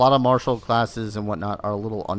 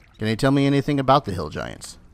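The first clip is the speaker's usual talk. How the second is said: ordinary talk, nothing marked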